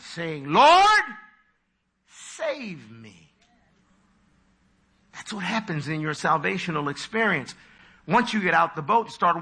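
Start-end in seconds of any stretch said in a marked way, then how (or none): 0.5-3.3 loud high cry on Lord, then a sinking hush on save me. Acted. Peter sinking in the waves, loud cry falling to hush. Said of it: "He cried".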